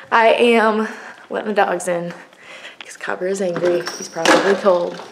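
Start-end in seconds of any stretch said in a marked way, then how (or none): 1.3-5.0 hushed whisper aside to the camera. Real, not acted. Mom whispers to viewers about letting dogs in, hushed. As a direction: whisper so you don't disturb anyone. Whispering so baby stays calm.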